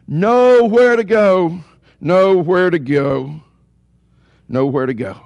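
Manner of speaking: "Nowhere to go" slow and ringing, sinking with each repeat; fading refrain. Real, not acted. Preacher on Jonah trapped in the fish, fading refrain.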